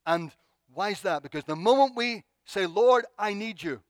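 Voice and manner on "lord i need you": high, loud plea to God; slow, emphatic cry for help; acted crying out. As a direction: call out for rescue. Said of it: "As soon as we cry out".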